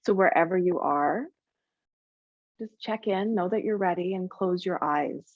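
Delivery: calm meditation guide with long, restful pauses; guided meditation. Acted. Yoga teacher easing students into Yoga Nidra, guided meditation voice. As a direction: ease them gently into rest, leaving space between phrases. Begins leading the guided relaxation.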